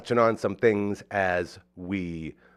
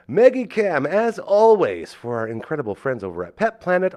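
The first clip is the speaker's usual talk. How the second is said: announcer voice; 8 semitones higher, 7 dB louder than usual. Acted. Announcing sponsor segment.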